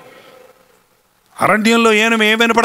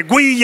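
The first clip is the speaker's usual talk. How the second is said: dog whine; 3 semitones higher than usual. Retold or imitated. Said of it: "అంటది".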